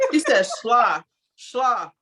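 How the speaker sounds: "schla" with an L slipped in after the sh; mispronounced imitation. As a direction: repeat "schla" as one open syllable, sh-l-ah. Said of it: "It ain't schla".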